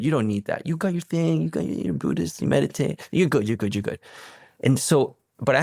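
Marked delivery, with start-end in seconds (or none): 0.0-4.0 higher, lightly voiced inner reassurance; lightly played voice of avoidance; little inner voice. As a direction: talk yourself out of it in a little voice. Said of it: "The little voice going like".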